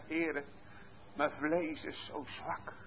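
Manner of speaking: contrite prayer. Acted. Sinner confessing weakness to the Lord, soft and slow. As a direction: pray it quietly, ashamed. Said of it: "met diepe s-, tranen, met schuldbesef".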